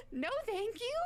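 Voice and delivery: high, quick polite brush-off; high no thank you. Retold or imitated. Retelling a creepy man's advance, high polite no thanks. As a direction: squeak out a prim refusal.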